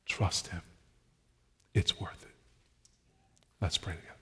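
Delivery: hushed, low sermon close; gentle, subdued invitation; quiet appeal. Real, not acted. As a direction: drop low and soft, pausing between short phrases. Quiet closing appeal before prayer.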